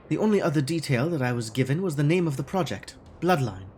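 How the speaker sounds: lightly put-on German accent for Frau Mueller; a hint of a stiff German accent, formal and guarded; faux German accent. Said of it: "this awful faux German".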